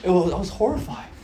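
laughing through the words; fast, laughing mock horror. Real, not acted. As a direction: say it while laughing at yourself.

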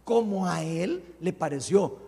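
"Él" stretched out and emphasized; slow down and lean on "Él"; stress on Él. Shown as a demonstration. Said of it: "pongan atención a eso". (énfasis marcado y alargado en "Él")

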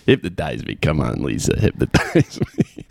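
mock Chicago accent, mostly low, breaking into a laugh; Kevin Bacon's Chicago accent. Podcaster ridiculing the film's dialogue, mock Chicago accent. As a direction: parody the movie lines in Chicago vowels. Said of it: "not with that dude's accent".

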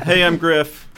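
put-on English Romanian comic accent. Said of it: "an English Romanian comic".

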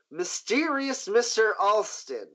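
"mysterious Mister Alston" pitched high and drawn out; pointed. Acted. Boss hinting at Roland about the murdered man, "mysterious Mister Alston" said pointedly. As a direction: lean slowly and knowingly on "mysterious Mister Alston". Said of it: "he says pointedly at Roland".

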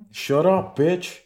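high-pitched playful yell, half joking; mock yell. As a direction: shout it up high like a fake scolding. Playfully snapping at someone nearby.

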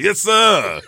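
hammed-up Southern lawyer twang; loud mock Southern drawl, laughing; Southern lawyer accent. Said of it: "sounding like a Southern lawyer".

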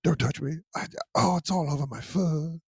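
soft, breathy little bear voice; lightly voiced gentle cartoon bear; Winnie the Pooh voice. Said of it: "I don't like Winnie being touched".

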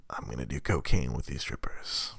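lightly voiced puppet gangster; Muppet Jack Nicholson. Podcaster imagines a Muppet Jack Nicholson, hushed puppet voice. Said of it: "Imagine fucking Muppet Jack Nicholson".

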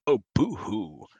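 lightly hissing snake villain; a hint of a sly snake. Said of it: "Do the snake voice".

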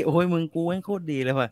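smug bragging about yourself, lightly voiced; hammed-up self-congratulation; playfully mocking someone who praises themselves. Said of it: "อันนี้พูดเอง ทุเรศ".

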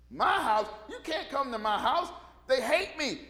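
can't believe they'd come; startled Matthew. Retold or imitated. Matthew shocked that Jesus wants his house, high and laughing. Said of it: "Matthew goes".

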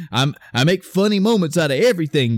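hammed-up funny guy, rattled off fast; jokey guy. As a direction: imitate an over-jokey character. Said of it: "he wasn't a super jokey".

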